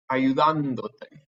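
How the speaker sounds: ayudándote slowly, stress on the "dán" syllable. Shown as a demonstration. Teacher showing students where the accent goes, stressed A in "ayudándote". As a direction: lean on the A in "ayudándote", drawn out. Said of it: "put it back on the A".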